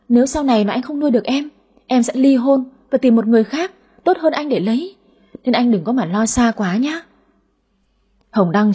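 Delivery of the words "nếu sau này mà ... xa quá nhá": put-on brazen gold-digger girl. Heroine lightly voiced, breezily telling her date she'd divorce him. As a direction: toss it off like it's obvious.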